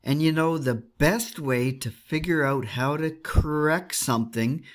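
unhurried storytelling voiceover; vlog voiceover narration. Acted. Recaps the night in voiceover.

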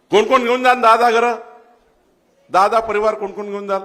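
loud, high call to the crowd. Real, not acted. Politician demands hands up from the crowd, loud call.

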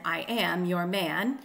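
slow iambic beat, AM and MAN stressed; I AM your MAN, measured. Shown as a demonstration. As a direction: scan "I am your man" with weight on am and man. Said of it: "unaccented followed by accented".

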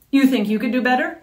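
fast, scornful scoff; the hunter's apprentice scoffs at the blighted girl. Acted. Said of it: "scoffed Vicarax".

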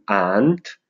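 "aren't" said as one syllable, "ant"; pronuncia contratta. Shown as a demonstration. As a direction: draw out "aren't" as a single slow "ant". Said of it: "si pronuncia ant". ("aren't" pronunciato "ant", lentamente)

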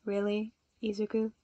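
an exasperated sigh at a friend; a mild weary sigh. A narrator's reading. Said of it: "Shoto sighed".

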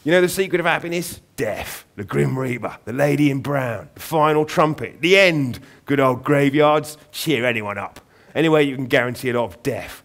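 put-on a ghoulish pirate-king raven lecturing a boy; gleeful London raven. Raven cheerfully preaching death to Aubrey, loud Cockney croak. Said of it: "loud, throaty voice and an accent".

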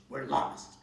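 unvoiced, loud hiss; witch hissing. A narrator's reading. Witch hissing to Kat in despair. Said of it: "hissed the witch".

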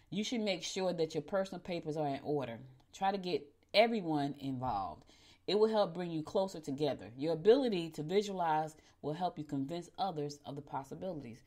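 measured, evenly enunciated reading aloud; horoscope read-out. Acted. Host reading Virgo its daily horoscope, measured read-aloud. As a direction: read it out clearly, sentence by sentence.

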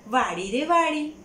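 slow, loud sing-song call. Acted. Man calls to the garden for permission, slow loud call. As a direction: call to the garden itself, drawn out. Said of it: "એમણે બૂમ પાડી".

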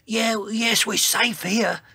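high dinosaur character voice; Sizo. A narrator's reading. Dinosaur looking over treetops, high reassuring report. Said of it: "he said".

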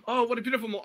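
put-on English accent. Trying on English before breaking off, mock English accent. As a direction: try out a hammed-up English accent. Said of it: "tried to do an English accent".

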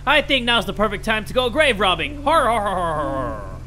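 a barely changed, badly done old pirate crab; Mister Krabs impression. Streamer reading a game's opening as a pirate crab, badly faked. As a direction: lightly put on a greedy pirate voice, ending in a laugh. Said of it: "most horrible Mister Krabs impression".

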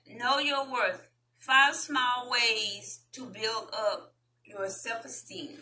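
slow, deliberate title read; measured article-reading voice; reading aloud. Real, not acted. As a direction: read the headline out word by word.

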